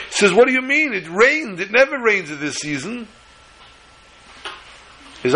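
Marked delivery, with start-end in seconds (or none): 0.3-3.1 high, incredulous insistence; the foreman can't believe the rain; astonished protest. Acted. Foreman insists it never rains.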